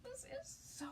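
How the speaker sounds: thrilled cry of oh my goodness; delighted squeal. Real, not acted. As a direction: gasp and gush over the reveal to the ladies. Revealing the finished sign.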